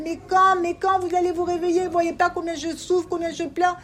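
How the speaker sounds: put-on high, pained call to sleeping children; God pleading. Teacher voicing Hashem calling His children to wake, pained. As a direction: plead like a weeping father calling out. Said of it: "il l'appelle, il dit".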